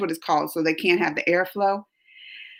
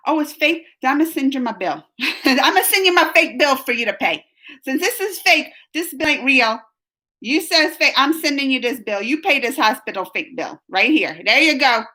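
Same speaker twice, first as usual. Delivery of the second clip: sassy; 3 semitones higher than usual. Retold or imitated. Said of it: "then I'd be like".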